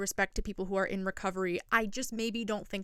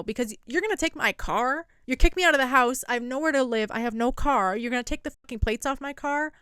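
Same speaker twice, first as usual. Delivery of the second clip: louder, higher mock outrage; outraged wife; 3 semitones higher, 4 dB louder than usual. Host voices the wife's disbelief at losing her car, mock outrage. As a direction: rant it as the wronged wife, a bit hammed-up.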